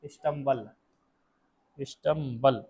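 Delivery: स्टम्बल said slowly, clearly, as a model; model pronunciation. Shown as a demonstration. Teacher to class, modelling the word स्टम्बल slowly. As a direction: repeat स्टम्बल carefully for the class. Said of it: "क्या बोलते हैं".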